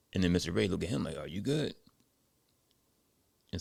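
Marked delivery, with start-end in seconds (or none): 1.2-1.7 serious question back. Retold or imitated. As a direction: turn the question back evenly. Mister Ray turns question back.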